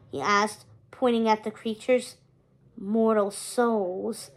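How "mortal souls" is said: very slow, lightly rasped skeleton voice. Acted. Skeleton ferryman telling Hector what lurks below, slow light rasp. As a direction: drag it out like a dusty old skeleton. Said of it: "the skeleton rasped".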